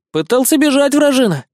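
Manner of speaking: high, loud indignant helper; a puppy griping about the captive. Acted. Шустрик жалуется. (высоко, возмущённо)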